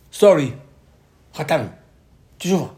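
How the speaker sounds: retold apology. People retell leaving Moshe.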